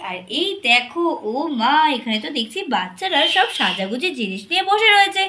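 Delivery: bright storyteller greeting the little ones; sing-song host voice opening a kids' story; cheerful kids' host. Acted. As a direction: welcome the children like a friendly show host.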